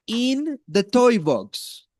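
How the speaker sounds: put-on slow, clear modelling for a child; slow model phrase. Shown as a demonstration. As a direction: say it slowly for a learner to copy. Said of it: "Repeat after me".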